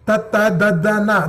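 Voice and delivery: ta ta da da na with the tongue on the teeth; tongue against the teeth for ta ta da da na; dental consonants demo. Shown as a demonstration. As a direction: Sanskrit teacher demo. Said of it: "Then dantya".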